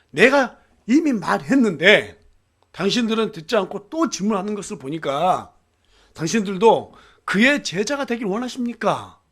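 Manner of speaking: loud, emphatic counter-question; pointed retort. Acted. Healed man retorting to his questioners, pointed and loud. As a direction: throw the question back at them forcefully. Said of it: "이렇게 이제 반문해요".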